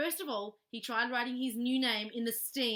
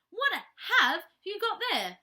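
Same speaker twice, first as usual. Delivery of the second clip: startled question; 9 semitones higher, 9 dB louder than usual. Acted. Missus Bird startled by bear.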